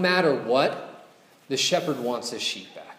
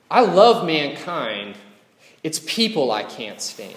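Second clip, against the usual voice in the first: mock shout. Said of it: "he shouts back to his sister".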